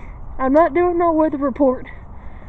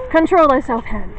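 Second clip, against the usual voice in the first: louder, mock-stern order; stern command; 4 dB louder than usual. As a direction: scold the shaky hand. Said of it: "Okay, hand".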